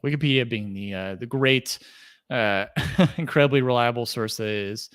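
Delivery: mock praise with a small laugh; sarcastic. Real, not acted. Podcast host jokes about Wikipedia as a source, sarcastic. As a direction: laugh lightly into the sarcastic compliment. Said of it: "That's sarcasm there".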